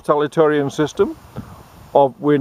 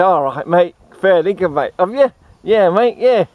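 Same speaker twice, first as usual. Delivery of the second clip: raised, drawled broad Aussie mateship; mock ocker banter; 2 semitones higher than usual. Two mates swapping bowling club stories, mock broad Australian. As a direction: ham up the larrikin chat. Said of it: "And I say".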